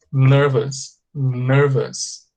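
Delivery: NERVOUS as a careful "NUR-vus"; correct pronunciation. Shown as a demonstration. Teacher repeats how it is pronounced, carefully. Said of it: "É assim que se pronuncia".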